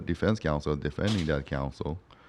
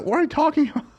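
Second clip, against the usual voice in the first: much higher, exasperated mock yell; retold yelling; 4 dB louder, faster than usual. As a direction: yell at the client in disbelief. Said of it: "I was yelling at this dude".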